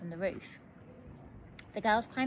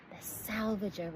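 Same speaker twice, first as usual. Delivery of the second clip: amazed repeat. A narrator's reading. Dot echoing the ship's name, slow and awed. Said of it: "repeated Dot".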